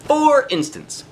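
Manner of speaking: high, slow sing-song for instance; drawn-out singsong aside to the listening kids; playful refrain. A narrator's reading. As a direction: stretch it out up high like a teasing refrain.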